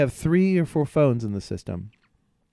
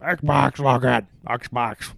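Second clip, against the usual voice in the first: louder repeated commands; yelling; 4 dB louder, much slower than usual. Retold or imitated. Yelling at the Xbox again and again, loud. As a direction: keep shouting it, losing patience. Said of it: "just yelling at my Xbox".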